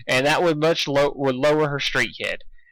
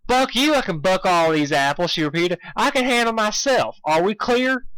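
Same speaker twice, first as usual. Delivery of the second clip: rising stubborn anger, higher; heated Applejack; 6 semitones higher than usual. A narrator's reading. Applejack insisting to Dusk, heated. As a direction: insist hotly.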